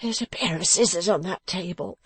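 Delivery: high, slow, breathy whine; in anguish. A narrator's reading. Beaten man asking the dressmaker for help, in anguish. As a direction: plead feebly through the pain. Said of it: "sitting up in anguish".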